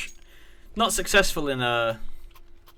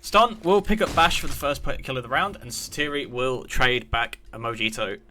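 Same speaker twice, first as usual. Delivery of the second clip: live play-by-play; 4 dB louder than usual. Real, not acted. Caster calling a kill to stream viewers, live play-by-play. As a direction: call the kill as it happens.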